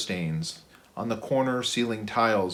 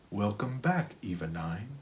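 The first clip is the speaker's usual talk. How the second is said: soft, relaxed house voice; relaxed automated welcome; relaxed intercom; 2 semitones lower, 7 dB quieter than usual. Acted. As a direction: greet her calmly, like a friendly house system. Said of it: "the intercom spoke in a relaxed tone".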